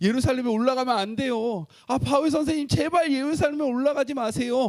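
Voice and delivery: tearful, high, loud pleading voice.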